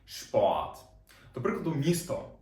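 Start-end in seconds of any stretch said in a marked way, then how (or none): 0.1-0.8 Шпорт with a firm sh at the start; German shp sound. Shown as a demonstration. Teacher models German word for students: Шпорт with sh. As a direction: clearly model Шпорт, sh then p. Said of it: "Вона читається як Ш".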